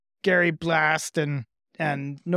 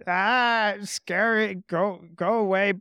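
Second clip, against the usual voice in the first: exasperated lizard; 3 semitones higher, slower than usual. Acted. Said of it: "kind of exasperated and is just like".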